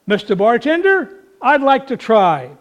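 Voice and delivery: light squeaky voice. Retold or imitated. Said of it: "in kind of a light, squeaky voice".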